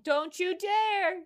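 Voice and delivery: mock menacing Cheryl. Voicing Cheryl's prayer room threat.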